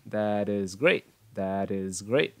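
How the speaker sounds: "that is great" slowed, T in that becoming D; linked words. Shown as a demonstration. Teacher models linking and end sound, words joined. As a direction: join "that is" as "tha-dis" before great. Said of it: "Bên này là âm S".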